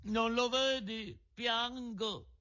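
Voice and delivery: put-on high, tearful wooden-boy voice; weepy puppet reply. A narrator's reading. Pinocchio answering the pigeon, high tearful voice. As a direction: answer up through tears.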